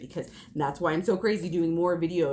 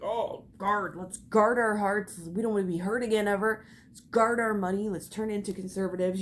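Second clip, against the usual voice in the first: mock quote; 3 semitones higher than usual. Mocking fearful adults' mindset.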